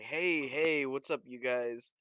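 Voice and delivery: put-on slow, easygoing hey to the kids; relaxed, unthreatening greeting; friendly and casual. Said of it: "get down on one knee ... non-intimidating".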